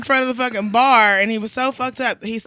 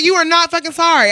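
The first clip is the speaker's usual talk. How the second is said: louder, higher, emphatic mock-angry rebuke; retold telling-off; 7 semitones higher, 7 dB louder than usual. Bartender repeats to drunk customer, retold telling-off. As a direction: hammer home "are not" in a raised voice. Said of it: "He got yelled at too".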